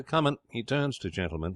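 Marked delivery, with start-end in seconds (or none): 0.0-0.4 high waiter's call. Acted. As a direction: sing out to a waiting customer. Waiter calls to the customer.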